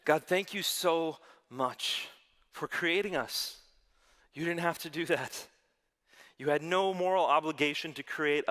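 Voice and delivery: earnest, unhurried prayer. Real, not acted. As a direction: lead the room in sincere prayer. Leads a prayer.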